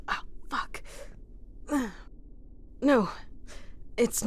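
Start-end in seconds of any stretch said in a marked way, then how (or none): 0.1-0.8 breathy muttered oath, softer; a soft pained swear; hushed curse. Acted. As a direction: curse under the breath on seeing blood. Noticing own wound.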